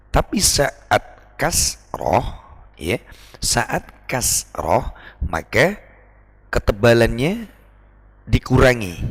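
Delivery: slow, drawn-out saat kasroh; slow teaching stress. Shown as a demonstration. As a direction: spell it out slowly for students. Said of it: "teacher slows to explain". (perlahan dan ditekankan)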